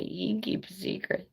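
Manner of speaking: creepy high whisper; imitating the neighbor's creepy whisper. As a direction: whisper it like a secret threat. Neighbor's creepy line retold.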